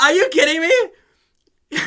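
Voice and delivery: high, slow, laughing "are you kidding me"; exasperated at the screen, laughing; are you kidding me, laughing in disbelief. Real, not acted. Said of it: "I'm like".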